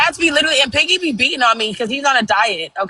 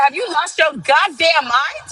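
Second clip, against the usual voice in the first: exasperated scolding; 5 semitones higher, slower than usual. Retold or imitated. Scolding the hissing cat.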